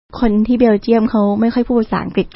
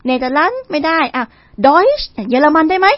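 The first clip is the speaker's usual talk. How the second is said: imitated questioning local; 4 semitones higher than usual. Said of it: "แล้วเขาก็ถามว่า".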